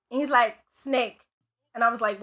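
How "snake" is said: flat, even monotone. Retold or imitated. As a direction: say it with no inflection at all. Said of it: "talking this real monotone voice".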